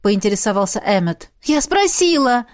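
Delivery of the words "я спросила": indignant. A narrator's reading. Indignant reply.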